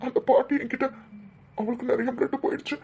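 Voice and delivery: tearful, upset recounting; weepy and distressed; crying. Acted. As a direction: recount it to mum through tears. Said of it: "ரெண்டு பேரும் அழாதீங்க".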